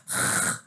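demonstrated French rasp at the back of the throat. Shown as a demonstration. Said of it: "the actual French way where they've got, like, that".

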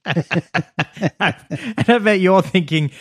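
slow, hammed-up presenter with laughter creeping in; half-laughing mock sales pitch; mock infomercial host. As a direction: play a cheesy money-saving pitchman. Mock money-saving infomercial pitch.

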